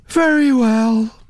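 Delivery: slow words through a yawn. Acted. Naomi agreeing to the Duchess, yawning. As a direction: let a yawn stretch the words. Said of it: "Naomi yawned".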